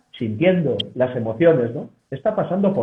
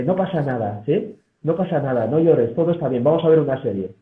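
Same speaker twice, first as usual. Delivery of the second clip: comforting relative. Shown as a demonstration. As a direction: hush a crying loved one kindly. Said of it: "deslegitimando de mil amores".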